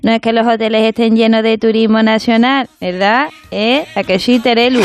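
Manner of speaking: María Teresa Campos impression.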